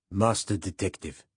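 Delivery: growled with mock admiration; a sneering, admiring growl. A narrator's reading. Coat man mocking the young cop: mock admiration. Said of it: "growled ... in mock admiration".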